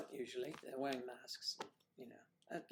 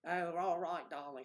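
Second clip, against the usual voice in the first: Cate Blanchett voice; 4 semitones higher than usual. Retold or imitated. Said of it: "She had the voice down".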